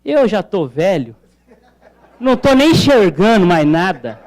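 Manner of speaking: put-on comically resigned old-timer's lament; mock depressed. Santos fan resigned in the sinking boat, mock depressed. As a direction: play at giving up on everything. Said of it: "já deprimido, fala".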